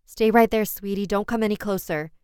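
loud, high urgent call; urgent warning. Acted. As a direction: stop the child, fast. Mother stopping child from danger.

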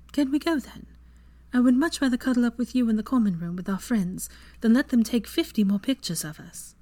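put-on bright young witch, amused; young woman voice. Voicing Hermione.

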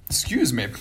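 talking through hiccups; catching hiccups between words. Real, not acted. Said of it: "got the hiccups".

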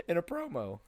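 high, quick disbelief; incredulous, breaking into a laugh; retold shock. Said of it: "I literally was in shock".

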